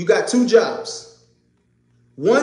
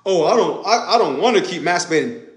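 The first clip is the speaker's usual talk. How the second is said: whiny mock excuse with a laugh. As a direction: parody a man making lame excuses. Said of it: "now you're making excuses".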